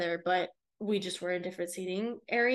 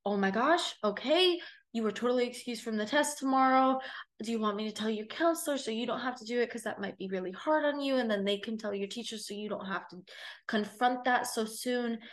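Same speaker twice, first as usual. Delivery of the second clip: a lightly raised, sympathetic teacher voice; concerned teacher; 3 semitones higher than usual. Retold or imitated. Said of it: "took it in her hands and said".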